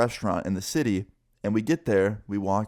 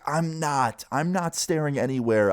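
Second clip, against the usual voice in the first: higher-pitched, retold indignant denial; defensive protest; 6 semitones higher, slower than usual. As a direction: protest your innocence, acting out the argument. Retold quarrel, denying girlfriend's accusation.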